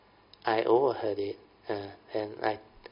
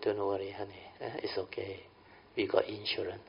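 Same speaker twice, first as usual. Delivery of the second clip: gentle reassurance; 7 dB quieter than usual. Pretend. Husband reassuring wife after crash.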